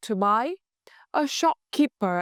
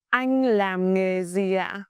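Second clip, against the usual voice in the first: polite question; slower than usual. Shown as a demonstration. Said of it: "in polite way".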